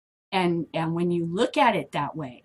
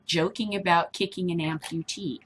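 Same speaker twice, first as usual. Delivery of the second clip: ordinary talk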